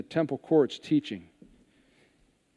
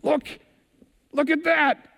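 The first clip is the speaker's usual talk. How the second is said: much higher and louder, bursting with delight; excited; 14 semitones higher, 5 dB louder than usual. Retold or imitated. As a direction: point it out like a thrilled kid. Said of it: "he gets excited".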